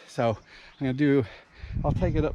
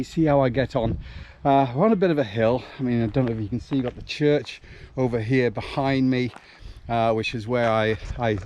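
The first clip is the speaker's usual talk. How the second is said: out of breath mid-run; puffing and panting while running; while jogging; 4 dB quieter than usual. Real, not acted. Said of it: "as you can hear, I am puffing and panting a bit".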